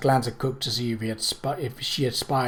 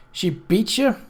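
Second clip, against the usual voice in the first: fierce; 8 semitones higher, slower than usual. A narrator's reading. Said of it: "Cook said fiercely".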